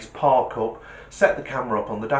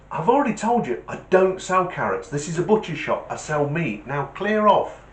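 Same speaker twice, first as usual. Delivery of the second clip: raised, exasperated joke voice; mildly irritated telling-off, pitched up; annoyed butcher; 5 semitones higher than usual. Acted. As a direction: act a shopkeeper losing patience.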